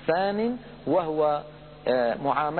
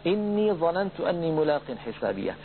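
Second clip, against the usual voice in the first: Quran recitation. Shown as a demonstration. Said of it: "قوله تعالى".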